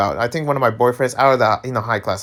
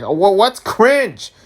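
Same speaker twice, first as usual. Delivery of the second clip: arguing; 8 semitones higher, slower than usual. Retold or imitated. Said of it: "I'm arguing".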